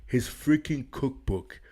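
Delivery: loud, slowed, shouting in disbelief; yelling in outrage; outraged shout. Real, not acted. Reacting outraged to coach's cookbook claim.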